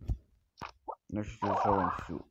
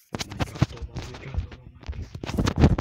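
breathy exclamation; 4 semitones higher, 7 dB louder, slower than usual. Real, not acted.

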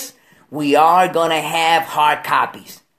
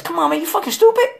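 mocking attorney; 12 semitones higher, faster than usual. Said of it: "He says".

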